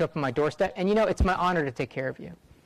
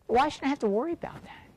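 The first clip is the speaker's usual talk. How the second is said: voicing Sheila's retort; 8 semitones higher than usual. Sheila voiced fumbling.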